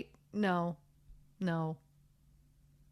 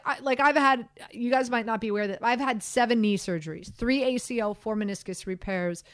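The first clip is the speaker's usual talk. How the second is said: ordinary delivery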